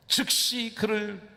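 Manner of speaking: 즉시 held long and pitched high; slow, high emphasis on 즉시; emphatic 즉시. Acted. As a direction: lift and lengthen 즉시 to drive it home. Preacher highlights the repeated word "immediately.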